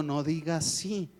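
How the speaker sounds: gentle correction. Retold or imitated. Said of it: "yo le digo".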